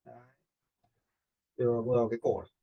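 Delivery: usual speaking voice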